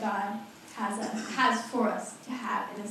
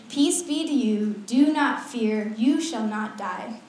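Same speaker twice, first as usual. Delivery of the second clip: solemn reassurance; 4 dB louder, slower than usual. Acted. God reassures Gideon in scripture reading.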